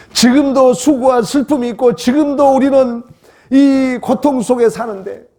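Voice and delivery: high, insistent pulpit cry; impassioned preaching. Real, not acted. Preacher telling congregation of suffering now, impassioned. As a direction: cry out over present suffering.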